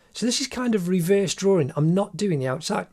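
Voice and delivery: hiccups while talking; speaking through hiccups; hiccuping. Real, not acted. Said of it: "Excuse me, just hiccuping".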